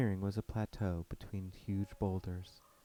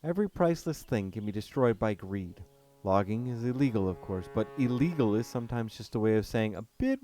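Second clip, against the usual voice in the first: loud German man, rising with anger at greed; indignant forest guardian; Cornell's voice, bitter; 3 semitones higher, 9 dB louder than usual. Acted. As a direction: Cornell condemning the corporations, louder and bitter. Cornell condemns the logging.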